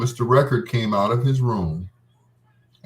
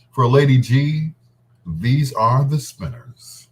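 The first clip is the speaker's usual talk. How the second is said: radio announcer intro. Acted. DJ introducing the show to listeners, smooth announcer read. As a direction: introduce the next song like a DJ.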